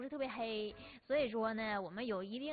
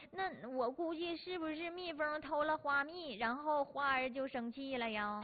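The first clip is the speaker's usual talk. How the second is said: put-on child voice; 2 semitones higher, slower than usual. Child answers teacher naively.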